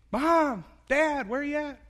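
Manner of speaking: put-on high, loud panicky child calling for mom and dad; a child who turned around and the parents are gone, high and loud; lost child calling out. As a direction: call out like a lost kid in a store. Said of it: "What's your first instinct?".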